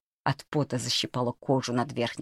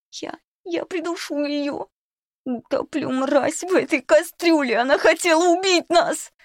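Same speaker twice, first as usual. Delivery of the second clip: much higher, building to louder screaming fury; hysterical rage; 14 semitones higher, 3 dB louder than usual. Acted. Varvara threatens to drown the cook, hysterical rage. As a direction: choke out threats, boiling over.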